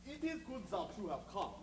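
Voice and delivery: put-on stranger speaking English in a thick German accent. Mysterious stranger greets the heroes in a German accent. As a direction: lean into the German vowels and "Ich". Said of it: "But you're speaking with a German accent".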